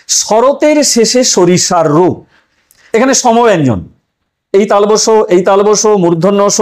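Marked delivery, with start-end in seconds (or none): 0.1-2.1 slow, measured reading of a verse line; poem recitation. Shown as a demonstration. Teacher reciting an example verse to students, slow and measured. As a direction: read the example verse deliberately slowly. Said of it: "চার নম্বর উদাহরণ দেখুন".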